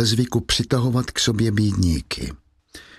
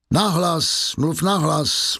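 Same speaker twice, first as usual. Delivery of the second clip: higher, slow commanding "Nahlas"; stern order; 5 semitones higher, much slower than usual. Acted. Javert ordering Valjean to speak up, stern. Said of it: "odvětil Javert".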